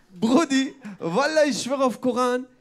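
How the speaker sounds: hammed-up street-talk impression, loud; mock street-slang girl. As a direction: imitate a brash girl swearing it, stretching the words. Same girl quote repeated.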